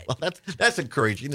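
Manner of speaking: mildly sarcastic mock approval; dry sarcasm, as if impressed. Real, not acted. Host reacting to a vague non-answer from lawmakers, sarcastic. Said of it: "as I say sarcastically".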